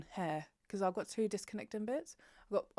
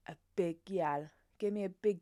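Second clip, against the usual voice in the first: whispered. Real, not acted. Pleading with authors for a big heroine, whispered. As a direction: whisper it like a wish. Asking for plus-size heroine.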